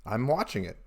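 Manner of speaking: low, halting cool-guy voice; put-on cool voice. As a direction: drop your voice to sound cool. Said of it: "I'm trying to play it cool".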